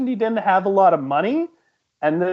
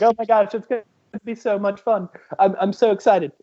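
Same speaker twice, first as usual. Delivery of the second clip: lightly British excited cousin; Rebecca. Acted. Cousin Rebecca thrilled about the trip, mock British excitement. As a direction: gush with a hint of a British accent. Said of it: "She's like".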